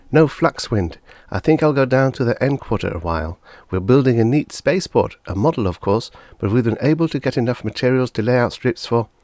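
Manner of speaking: put-on a keen kid sharing his plans; lightly voiced eager boy. A narrator's reading.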